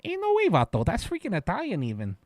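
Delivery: squeaky high Ain't no way, vato; mock disbelief, pitch jumping way up. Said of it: "it was like".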